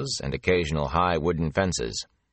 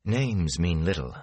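calmly; slower than usual. Acted. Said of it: "Moraine said calmly".

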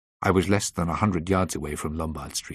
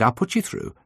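receptionist on the phone; 12 semitones higher than usual. A narrator's reading. Secretary picking up the firm's line, receptionist voice. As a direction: answer the office line in a lifted voice.

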